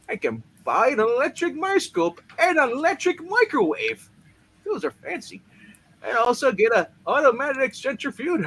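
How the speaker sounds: giddy. Acted. Gloating over money.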